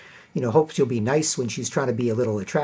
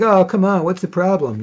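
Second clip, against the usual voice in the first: put-on creepy old man; 6 semitones higher, 5 dB louder than usual. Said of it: "This is a creepy, ugly old man".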